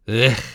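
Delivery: short snarling grunt of disgust; feral snarl. A narrator's reading. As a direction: spit it out like a cold, limping wolf. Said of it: "snarled the wolf".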